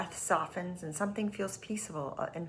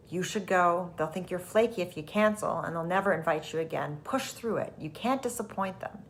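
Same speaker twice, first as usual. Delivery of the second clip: pushy ego voice; 4 dB louder than usual. Acted. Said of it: "ego voice might sound like".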